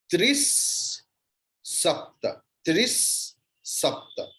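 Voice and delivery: Tris with a held hissing s before Sapta; visarga as s. Shown as a demonstration. Teacher showing students visarga before sa, s held in Tris. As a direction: draw out the final s of "Tris", then "Sapta". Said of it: "Visarga's pronunciation will follow. The same thing".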